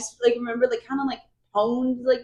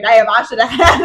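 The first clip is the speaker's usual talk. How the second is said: country bumpkin Cassian; 7 dB louder than usual. Retold or imitated. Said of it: "That's how he made Cassian sound".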